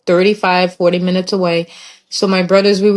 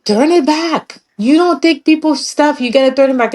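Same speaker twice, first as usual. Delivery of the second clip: imitating angry uncle; 7 semitones higher than usual. Uncle ordering them to return donated clothes, angrily. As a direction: bark the order like a furious uncle. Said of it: "my uncle was so mad".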